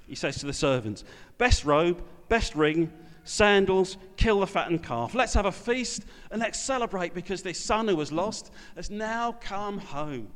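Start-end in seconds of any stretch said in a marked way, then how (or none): 1.4-10.3 joyful father. Acted. Father orders feast for returned son.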